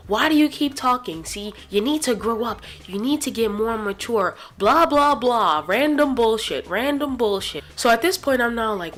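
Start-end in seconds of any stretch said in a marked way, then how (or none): 0.1-7.6 lightly voiced nagging teacher, a bit louder; mocking teacher's scolding. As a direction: imitate a teacher's rant, trailing into dismissive blah-blah. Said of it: "glares, and just like".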